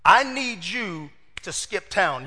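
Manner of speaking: slow, grave warning; lightly voiced mother warning her son; a hint of a worried mom, slowed down; urgent mother. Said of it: "He said".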